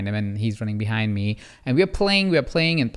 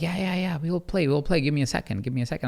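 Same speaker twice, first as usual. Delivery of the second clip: lightly acted breathless stalling, soft and higher; winded parent; 4 semitones higher, 4 dB quieter than usual. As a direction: put off an eager child, mock-winded. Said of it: "as I'm out of breath".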